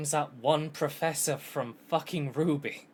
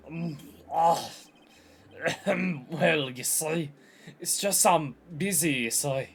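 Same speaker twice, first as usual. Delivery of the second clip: put-on voice, drawn out and evasive; lightly caricatured awkward boss; flustered old lawyer; slower than usual. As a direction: stall with throat-clearing and excuses. Voices Marvin Grosberg making excuses.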